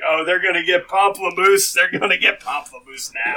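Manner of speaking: excited onlooker. Retold or imitated. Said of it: "Be like".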